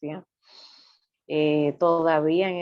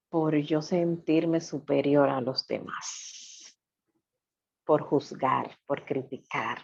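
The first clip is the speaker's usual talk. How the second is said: whispered confession; slower than usual. Real, not acted.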